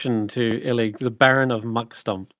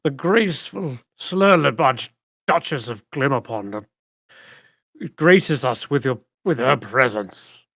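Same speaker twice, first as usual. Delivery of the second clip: herald cheer; 2 semitones higher, 3 dB louder than usual. Acted. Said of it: "Murtops cheers".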